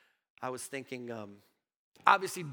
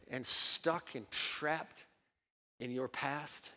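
much softer and lower, very slow; hushed emphasis; 7 semitones lower, 8 dB quieter, slower than usual. Acted. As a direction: drop the voice to a slow, intimate hush. Preacher softens for the point.

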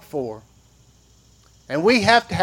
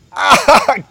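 higher, louder exasperated warning; scolding parent; 4 semitones higher, 5 dB louder than usual. Retold or imitated. Parent calling a child away from the edge, loud and exasperated. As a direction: call the child back from the edge. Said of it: "touch it".

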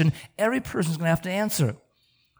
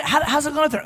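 lightly acted high-pitched inquiry; a touch of put-on friendly concern; chirpy questioner; 6 semitones higher, faster than usual. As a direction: ask it high and breezy. Voicing a questioner in retold exchange.

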